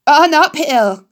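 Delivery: high, loud bleating call; crying sheep. A narrator's reading. Sheep calling to Wilbur, high bleating cry. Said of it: "cried the sheep".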